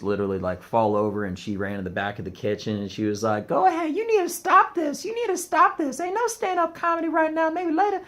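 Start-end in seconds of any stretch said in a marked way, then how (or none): 3.5-8.0 high-pitched imitated Middle Eastern accent. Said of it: "my version of somebody with a Middle Eastern accent".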